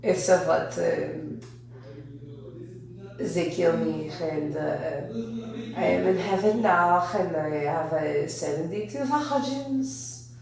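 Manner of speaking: a hammed-up Iranian accent, slow and halting; lightly put-on Iranian accent, stretched out slowly at the end. Comic as the Ayatollah in heaven, hammed-up Iranian accent. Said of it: "Pardon my Iranian".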